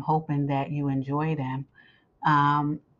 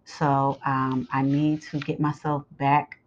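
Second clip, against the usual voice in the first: hoarse scratchy voice from a swollen throat; talking through a sore, scratchy throat. Real, not acted. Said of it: "'cause my throat is swollen".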